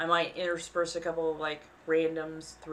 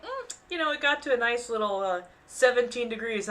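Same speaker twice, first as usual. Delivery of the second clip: cold-climate local; 5 semitones higher, faster than usual. Retold or imitated. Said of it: "they're like".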